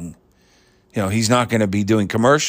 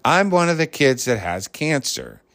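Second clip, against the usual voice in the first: lightly voiced cute kid, pitched higher; cute little boy; 5 semitones higher than usual. Telling how the boy on TV said it, cute. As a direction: imitate a chirpy little boy, innocently matter-of-fact. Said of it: "he said it so cute".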